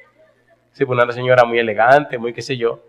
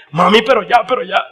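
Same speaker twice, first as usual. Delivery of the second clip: put-on much higher child's voice begging; little boy pleading; 10 semitones higher, 4 dB louder than usual. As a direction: plead like a small kid, high. (niño suplicando con voz aguda)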